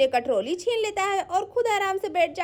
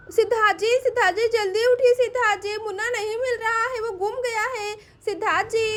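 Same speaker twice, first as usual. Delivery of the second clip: mildly raised, urgent call; 3 semitones higher than usual. Acted. Pinki wakes Siddharth about missing Munna, urgent calling. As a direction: call out to wake someone, a little higher. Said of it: "इतनी जोर जोर से क्यों चिल्ला रही है".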